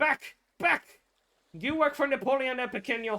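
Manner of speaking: high-pitched, loud screaming. Voicing a character aiming a rifle at a skeleton: screaming at the skeleton. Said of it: "she's screaming at the skeleton".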